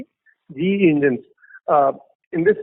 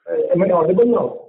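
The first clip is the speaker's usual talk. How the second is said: echoey phone line; 3 dB louder than usual. Real, not acted. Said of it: "It's too much echo in your voice".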